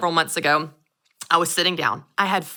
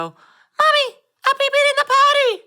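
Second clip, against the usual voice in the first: put-on high, excited toddler voice, much higher; little boy's voice; 5 dB louder than usual. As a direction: squeal it like a proud little boy. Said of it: "You hear this little voice in the background go".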